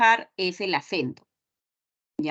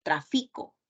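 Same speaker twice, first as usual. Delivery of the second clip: Tráfico with stress moved to the middle syllable, FI; grave stress; 4 semitones lower, 5 dB quieter than usual. Shown as a demonstration. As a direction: say Tráfico as tra-FI-co, pitched lower. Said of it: "puedo pronunciarla como una grave".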